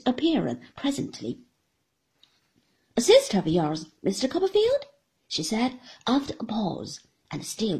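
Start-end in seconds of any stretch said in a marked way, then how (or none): 3.0-4.9 lightly voiced sly little woman, questioning; a sly, probing lilt, rising on Copperfield; Miss Mowcher.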